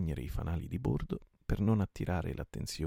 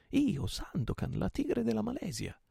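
proclaiming shout. A narrator's reading. Captain announces himself to the ships, high ringing shout. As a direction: proclaim the name high across the water.

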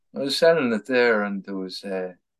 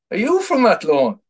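imitating a flat Athlone accent, pitched higher and louder; 11 semitones higher, 7 dB louder than usual. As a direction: ask it like a flat Athlone local. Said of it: "in the flattest Athlone accent".

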